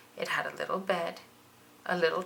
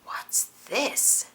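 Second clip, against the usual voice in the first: wondering whisper; 5 semitones higher than usual. Acted. Bug hovering over a strange find, whispering in wonder. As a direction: whisper it to yourself in curiosity. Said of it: "she wondered".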